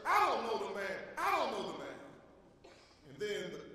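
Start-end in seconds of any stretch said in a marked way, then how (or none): 0.1-2.0 swearing denial. Retold or imitated. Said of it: "began to swear and to curse".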